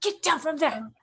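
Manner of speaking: put-on stern order to a child; scolding parent. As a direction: tell off a child who is somewhere dangerous.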